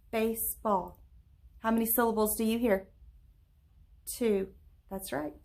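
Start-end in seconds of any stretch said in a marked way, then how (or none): 0.1-1.0 "Baseball" in two separated beats; syllable by syllable. Shown as a demonstration. Teacher clapping with pupils, "Baseball" broken into two beats. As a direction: split "Baseball" after the first syllable, as if clapping each part. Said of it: "Clap it and, and say it with me".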